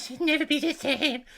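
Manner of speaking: put-on high-pitched cartoon child voice. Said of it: "She has the Cartman voice".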